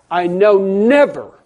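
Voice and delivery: loud, drawn-out proclamation; God shouting. Acted. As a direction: thunder out God's promise slowly. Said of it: "it's God shouting as loud as he can".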